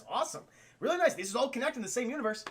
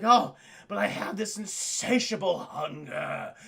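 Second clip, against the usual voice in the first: mock vampire; 3 dB louder, slower than usual. Retelling Morbius line in voice.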